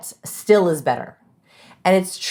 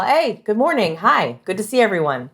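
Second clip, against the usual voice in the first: friendly, welcoming hello on a video call; high-warmth greeting; 4 semitones higher than usual. Shown as a demonstration. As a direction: open the call warmly and welcomingly. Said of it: "you just signaled high warmth".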